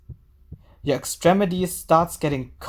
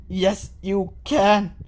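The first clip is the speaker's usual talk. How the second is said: reassuring; 3 semitones higher, much slower than usual. Acted. Friend soothing Senri.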